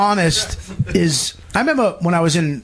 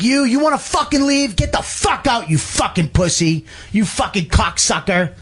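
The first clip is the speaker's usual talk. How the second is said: imitated angry tirade; 5 semitones higher than usual. Rehab boss tells off the kid, mock angry tirade. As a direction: imitate a lunatic chewing someone out. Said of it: "he was a fucking lunatic".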